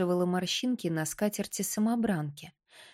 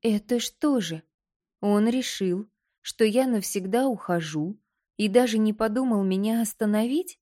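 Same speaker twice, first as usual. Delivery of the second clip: shaky voice; 3 semitones higher, 3 dB louder than usual. Acted. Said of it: "дрожащим голосом спросила она".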